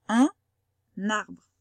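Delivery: Un arbre, the N linked into arbre; liaison demo. Shown as a demonstration. Teacher modelling liaison words, carefully. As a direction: model Un arbre with a clear link. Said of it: "il a fait comme s'il y en avait un deuxième".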